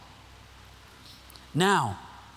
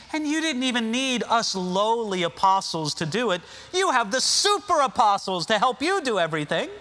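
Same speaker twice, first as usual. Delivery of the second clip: raised, mock-flattering; preacher's paraphrase with sarcasm; sarcastic; 5 semitones higher than usual. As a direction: paint their glory with sarcasm. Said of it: "Paul is clearly being sarcastic".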